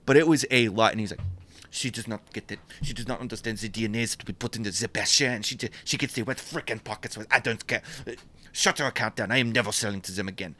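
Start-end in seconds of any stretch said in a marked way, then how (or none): 1.7-10.5 understated mock French rant, starting soft; mad French accent. Maker drops a buyer over pocket squares, mad French accent. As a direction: fume in a bad French accent. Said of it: "He got so mad".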